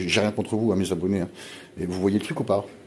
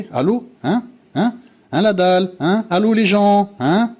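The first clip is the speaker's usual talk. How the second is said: shouted, much higher and louder; exasperated shouting; 11 semitones higher, 5 dB louder than usual. Real, not acted. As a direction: yell at the audience to wake up. Calling out to viewers, exasperated. (crie « Allô, les gens ? » avec exaspération)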